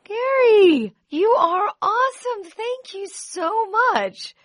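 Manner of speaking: high, loud, teary thanks; overwhelmed gratitude. Real, not acted. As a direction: near tears with real gratitude. Caller pledges matching donation, host overwhelmed.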